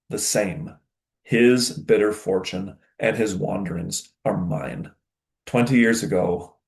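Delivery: measured, deliberate epic reading; story narration. Acted. Teacher reading a father's declaration to his son, measured narration. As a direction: read it with weighty pauses between phrases.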